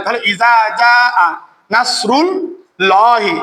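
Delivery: ইজা জাআ with the long vowel in জাআ held for four counts; four-alif stretch. Shown as a demonstration. Teacher showing the four-alif elongation. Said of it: "চার আলিফ।".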